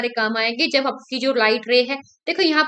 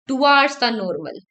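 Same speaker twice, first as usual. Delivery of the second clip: slow dictation; 3 dB louder, much slower than usual. Shown as a demonstration. Teacher stressing the rule.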